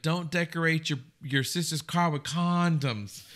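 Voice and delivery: lightly imitated Alabama mom; a touch of Southern drawl, slowing toward the end; Sally Field. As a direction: quote it in a mild Alabama accent. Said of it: "where she's Alabama".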